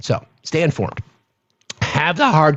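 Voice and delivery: voice cracking, breaking. Speaker addressing the show's supporters, voice cracking. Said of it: "my voice cracked again".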